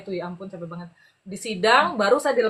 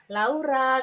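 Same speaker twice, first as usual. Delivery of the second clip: gentle name call; 3 semitones higher than usual. Retold or imitated. Officer singles her out without scolding, gentle call. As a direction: imitate an officer calling her kindly. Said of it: "kayak gitu manggilnya".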